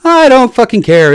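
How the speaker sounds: high, loud, slow angry yell; angry shout. Real, not acted. Telling disbelievers he doesn't care, angry shout. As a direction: blast it at them.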